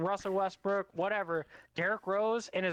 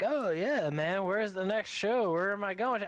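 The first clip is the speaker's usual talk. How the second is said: hippie; 3 semitones higher than usual. Retold or imitated. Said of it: "grassroots hat hippie".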